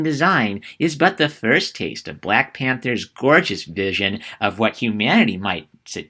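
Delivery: mock millennial reading, lilting up and down. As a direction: put on a singsong millennial to ridicule the review. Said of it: "I'm gonna be doing my millennial voice".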